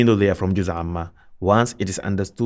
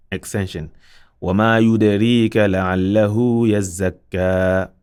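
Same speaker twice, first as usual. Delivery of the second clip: Quran recitation. Acted. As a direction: recite it out with Tajweed. Recites verses with stops.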